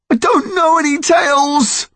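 high frightened voice; fearful protest. Acted. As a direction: blurt it out in fear. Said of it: "mind lurching with fear".

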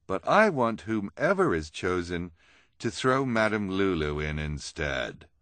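slow, deliberate persuasion; a hint of a theatrical villainess; lightly voiced schemer. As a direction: lay out the task with relish, slowly. Narrator voices scheming Esme.

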